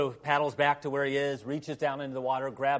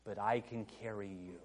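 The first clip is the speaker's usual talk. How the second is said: quiet tender resolve; 4 semitones lower, 7 dB quieter than usual. Retold or imitated. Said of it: "looks at him and says".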